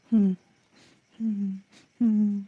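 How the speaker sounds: small, low stifled sobs; crying whimper. Acted. Hurt friend crying after a cruel remark, soft whimpering. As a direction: whimper softly in short closed-mouth sobs. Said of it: "அவன் எப்படி அழுகுறான்னு".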